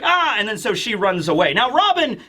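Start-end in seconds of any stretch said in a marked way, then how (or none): 0.0-0.4 short high-pitched mock scream; startled yelp. Wanted girl recognized by a stranger, mock startled yelp. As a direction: let out an acted yelp of alarm.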